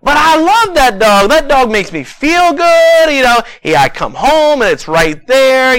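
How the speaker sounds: high, loud, pleading farmer defending his dog; furious farmer. Retold or imitated. Farmer refusing the doctor, high and loud. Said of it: "the farmer gets furious".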